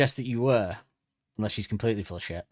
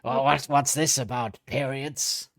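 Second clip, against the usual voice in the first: slow put-on doctor character; Doctor Hawking; slower than usual. Resident doctor answering the podcasters' question, slow character voice. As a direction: drag it out as a comic expert called in. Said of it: "Doctor Hawking".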